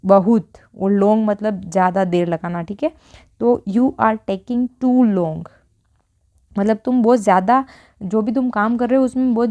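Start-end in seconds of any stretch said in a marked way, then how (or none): 3.7-5.4 very slow, word by word; slow model sentence. Shown as a demonstration. Teacher modelling an English sentence for Hindi learners, very slow. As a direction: say it slowly so learners can follow. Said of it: "तो क्या बोलेंगे हम".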